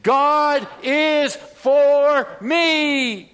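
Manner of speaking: preacher crying out for the church to echo; slow rising proclamation. Shown as a demonstration. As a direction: shout it out slowly in triumph.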